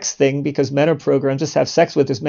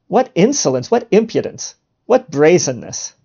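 humorous mock indignation; 2 semitones higher than usual. Mocking an offended woman's reaction to a proposition, mock indignant. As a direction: play up the scandalized indignation. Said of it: "I'm doing this humorously".

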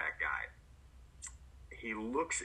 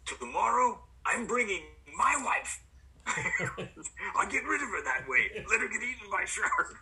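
put-on high, louder, laughing thick Bulgarian accent; 11 semitones higher, 4 dB louder than usual. Bulgarian crew guy joking about his wife, laughing Bulgarian accent. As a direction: Bulgarian accent cracking a joke through a laugh. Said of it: "thick Bulgarian accent".

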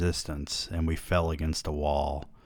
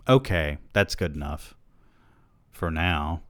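sexy voice. Real, not acted. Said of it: "I said in my sexiest voice".

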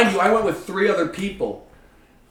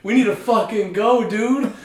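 higher, louder urgent pleading; higher, louder plea to the friend to get him home; 7 semitones higher, 5 dB louder than usual. Retold or imitated. Urgently calling drunk friend away.

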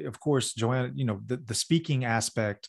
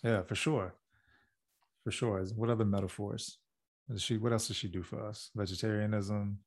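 softly, as if thinking aloud; near whisper; 6 dB quieter than usual. Real, not acted. Husband musing on what the dog does for them, very quietly. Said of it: "You're whispering".

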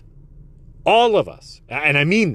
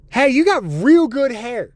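lightly voiced old woman, higher and slow; old lady compliment; 8 semitones higher, 3 dB louder, slower than usual. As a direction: imitate a kindly old lady passing by. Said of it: "she just goes".

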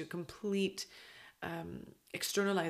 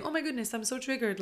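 much higher, hammed-up theatrical fuss; mock dramatic; 6 semitones higher than usual. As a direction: overplay it like a soap-opera gasp. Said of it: "no one's triggered and then saying".

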